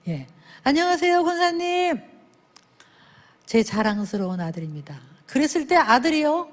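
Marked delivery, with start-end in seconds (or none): 0.6-2.0 demo greeting. Shown as a demonstration. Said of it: "이렇게 하기". 3.4-5.0 proud introduction. Shown as a demonstration. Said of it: "이렇게 하기".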